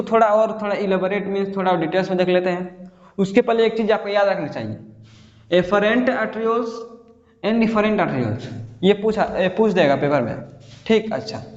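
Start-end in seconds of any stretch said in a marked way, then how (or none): 5.5-8.4 slow emphasis. Shown as a demonstration. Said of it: "कैसे याद रखेंगे".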